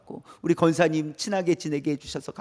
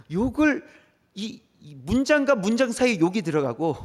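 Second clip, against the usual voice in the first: amused laughing; 3 semitones higher than usual. Real, not acted. Amused by teens' constant swearing.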